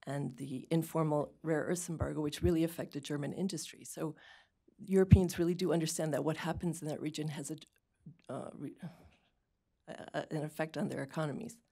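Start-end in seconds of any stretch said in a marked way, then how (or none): 4.9-11.6 speaking with a dry mouth; dry mouth, sticky words. Real, not acted. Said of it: "I'm getting really dry mouth".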